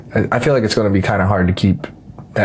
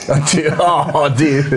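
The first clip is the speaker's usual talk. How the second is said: surprised; 6 semitones higher, slower than usual. Real, not acted. Friend rates himself a two.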